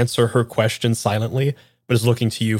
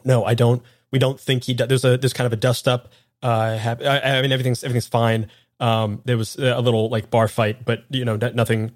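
nervous stammering. Acted. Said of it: "and he goes".

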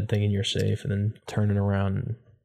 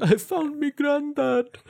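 put-on very high, slow child's Irish accent; slower than usual. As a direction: squeak out a hammed-up Irish party trick. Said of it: "Do the voice".

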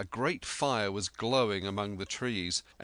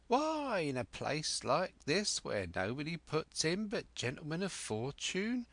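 put-on high, eager old castaway voice; an excitable marooned sailor rambling on; Ben Gunn; 5 semitones higher than usual. Marooned sailor telling Jim of Flint, eager and high.

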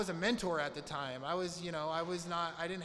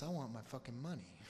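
mock business side; 4 semitones lower, 5 dB quieter than usual. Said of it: "the business side of me says".

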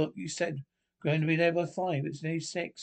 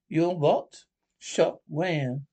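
shocked; 5 dB louder, much slower than usual. Acted. Wife hears he was shot.

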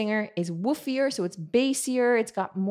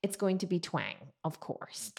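usual speaking voice

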